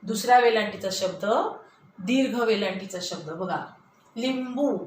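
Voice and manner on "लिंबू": लिंबू with a short, quick li; लिंबू, first vowel kept brief. Shown as a demonstration. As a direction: say लिंबू without stretching the i. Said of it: "आपण पटकन शब्द म्हटला".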